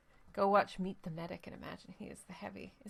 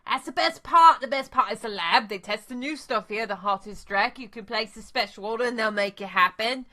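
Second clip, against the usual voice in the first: a slick hustler, lightly voiced; street dealer; 7 dB louder than usual. Dealer selling lab access to the runner, eager and loud. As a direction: pitch the lab like a sales spiel.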